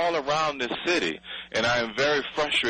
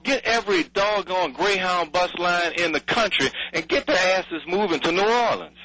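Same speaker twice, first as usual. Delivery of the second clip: exasperated outburst; 6 semitones higher than usual. Retold or imitated. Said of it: "I'm like".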